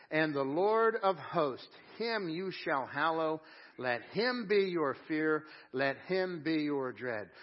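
slow, weighty scripture reading, each phrase held; slow solemn reading. Acted. Preacher to congregation, reading Isaiah slowly and gravely. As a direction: lean into every line slowly.

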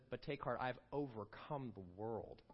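quiet, slow reassurance; hushed, tender comfort; soft take heart. Retold or imitated. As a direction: settle it gently, like a promise. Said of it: "he quickly says with an exclamation point".

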